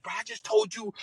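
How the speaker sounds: high, loud scolding of a golfer; a high, loud told-you-so rant; exasperated yell. Retold or imitated. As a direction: chew him out for ignoring you. Scolding the golfer after bunker shot.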